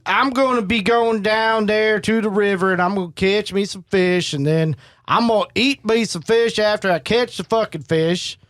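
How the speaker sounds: put-on folksy good old boy in a mild country accent. Shown as a demonstration. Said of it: "Give me a country accent".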